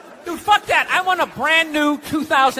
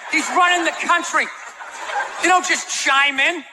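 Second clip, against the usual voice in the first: indignant rant; 3 semitones higher than usual. Retold or imitated. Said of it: "It's just like".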